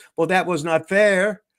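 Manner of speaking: put-on French Canadian accent. Retelling what an opponent complained after losing to the speaker, French Canadian accent. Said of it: "he got the French Canadian accent".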